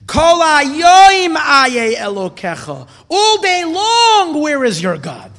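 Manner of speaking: slow, loud, high drawn-out call; heaven calling out. Acted. Rabbi voicing heaven's call to every Jew, slow and loud. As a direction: cry it out like heaven calling each soul.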